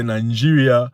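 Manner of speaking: "Nigeria" with an extra n, nan-JEE-ria; Nigerian-style pronunciation. Shown as a demonstration. Host instructing listeners how to say it, "Nigeria" as Nan-jiria. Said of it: "make sure you say Nigeria".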